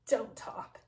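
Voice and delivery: whispered, menacing; possessed hero whispering a threat; cold whisper. Retold or imitated. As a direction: hush her with a threat. Possessed hero silencing heroine.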